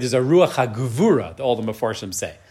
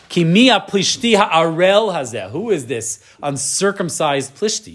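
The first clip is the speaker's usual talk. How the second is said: David's defiant challenge; 3 semitones higher than usual. Retold or imitated. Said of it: "You see how the way he speaks".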